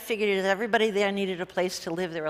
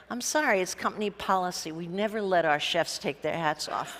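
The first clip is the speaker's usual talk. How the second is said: softer, cool and deadpan; cool and unbothered; 2 semitones lower, 4 dB quieter than usual. Retold or imitated. Entrepreneur coolly answering the producer, deadpan. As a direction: brush it off without blinking. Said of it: "coolly turns around and he said".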